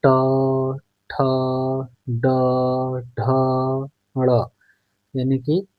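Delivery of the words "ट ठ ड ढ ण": ट, ठ, ड, ढ, ण said separately with pauses; spelling out consonants. Shown as a demonstration. Teacher demonstrating retroflex consonants slowly. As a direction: sound out ट ठ ड ढ ण one by one, tongue curled back. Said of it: "बोल के देखिए".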